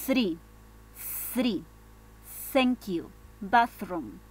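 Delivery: Three, thank you, bathroom with a blown th; tongue just behind the teeth, blow the th in three; th sound. Shown as a demonstration. Teacher drilling example words, blown th in three. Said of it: "pones tu lengua justo atrásito de tus".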